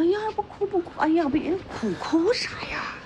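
soft, hurried comforting; tender fussing over someone in tears; soothing. Acted. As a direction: hush a crying girl softly. Older woman comforts crying girl.

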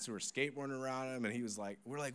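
ordinary talk

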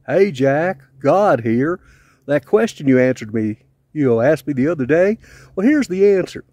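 put-on a light, mild Southern accent for God. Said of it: "you'll have a Southern accent".

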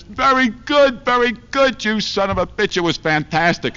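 mocking wife falsetto. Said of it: "She says".

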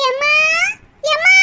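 short, rising call for mom. Acted. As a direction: call out to see if mother is home. Daughter calls from the doorway.

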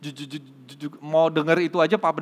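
heavy acted stutter; gagap. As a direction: imitate a man stuck on his first syllables. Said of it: "sambil gagap gitu ya". (menirukan orang gagap)

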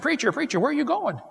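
high, calling out after someone running off; calling after the preacher. Retold or imitated. Churchgoer calls after the fleeing preacher, high and calling.

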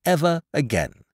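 high, urgent pleading; impassioned cry. A narrator's reading. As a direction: plead at a high pitch, easing toward the end. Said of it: "cried Dot".

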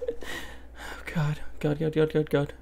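breathless frightened god god god; panicked repeated muttering; terrified gibbering. Real, not acted. Panicked running.

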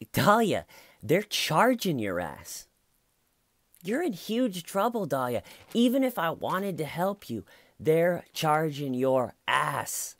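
hammed-up exasperated husband; exasperated scolding. Retelling Mike scolding Dahlia.

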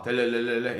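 low, rolling mimicked ringtone; spoken ringtone imitation; imitated phone ring. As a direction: trill a phone ringing, low and monotone. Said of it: "전화가 와".

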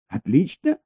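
high rising disbelieving echo; incredulous echo. A narrator's reading. Elina echoes Baker in high disbelief. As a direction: throw his word back at him.

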